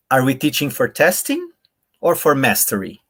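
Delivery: "testing" पर उठता सुर; stress on TESTING. Shown as a demonstration. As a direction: lift testing, then fall on mastery. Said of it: "in this way I read".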